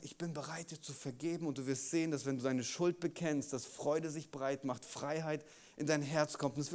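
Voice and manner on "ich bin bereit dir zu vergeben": gentle, much softer promise of forgiveness; soft voice of Jesus. Acted. Jesus quietly promising forgiveness, soft. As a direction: hush it, a tender offer. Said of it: "Und Jesus sagt".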